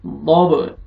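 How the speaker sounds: दब with an echoing bounce on the final b; qalqala bounce. Shown as a demonstration. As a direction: pop the b at the end of दब so it sounds twice. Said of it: "double आवाज आएगा". (दब के आख़िरी ब पर क़लक़ला, double आवाज़)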